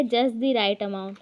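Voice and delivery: spaced out slowly, word by word; slow dictation. Shown as a demonstration. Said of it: "फिर क्या है?". (धीरे धीरे बोलकर)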